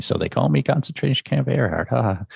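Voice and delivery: lightly imitated boastful laugh; smug mock laugh. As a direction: play the pleased officer laughing at his nickname. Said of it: "does kind of the same thing".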